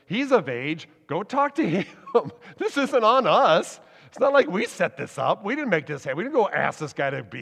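mildly hammed-up parents passing the buck; defensive brush-off. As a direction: push the questioners off onto someone else, half in jest. Parents deflect the officials' questioning.

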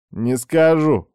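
smug, teasing refusal; smirking. Acted. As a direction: tease her with a smirk. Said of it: "усмехнулся этот гад".

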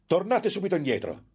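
molto più alto, voce del monaco; ordine urlato. A narrator's reading. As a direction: intima alla ragazza di tornare. Monk chases fleeing victim. (comando gridato in tono altissimo)

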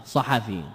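صحفي as ṣaḥafī, quiet and slow; صحفي محركة ببطء وهدوء; voweled form. Shown as a demonstration. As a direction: spell out صحفي with every letter voweled, softly. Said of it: "محركة".

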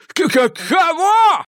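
howling through chattering teeth; high, slow, stuttering howl from cold. Acted. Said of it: "взвыл Малькольм, клацая зубами". (вой, зубы стучат от холода)

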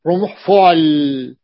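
slowly spelling out رمح فعل; drawn-out teaching delivery; slow model words. Shown as a demonstration. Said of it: "pattern demo".

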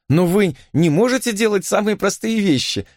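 high, pitying cry; a woman bursting out in pity for him; pitying exclamation. A narrator's reading. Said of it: "воскликнула она с жалостью в голосе".

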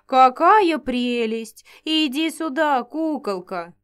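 slow, loud gushing giantess; delighted cooing. Acted. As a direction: coo over the tiny girl. Giantess cooing over girl.

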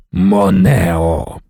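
low, firm call of a name; a lord cutting his servant off; stern rebuke. A narrator's reading. Leto silencing Moneo, a low stern call.

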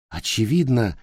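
ordinary delivery

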